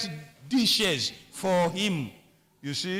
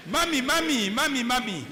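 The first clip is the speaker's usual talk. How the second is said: put-on kids calling; 4 semitones higher, faster than usual. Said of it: "let the kids say".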